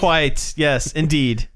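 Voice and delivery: put-on British agreement; mock British. Host echoing co-host's mimicry, mock British accent. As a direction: agree like a hammed-up Englishman. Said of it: "mimicking, uh, British culture".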